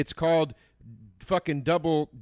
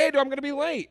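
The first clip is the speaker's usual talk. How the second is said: proper heads-up text; 9 semitones higher, faster than usual. Retold or imitated. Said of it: "send it at six and say".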